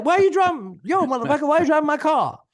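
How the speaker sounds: loud, high-pitched shout in an imitated Black American accent; mock Black American accent. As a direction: play an outraged car owner, hammed-up Black American accent. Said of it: "That's why I did the, the accent there".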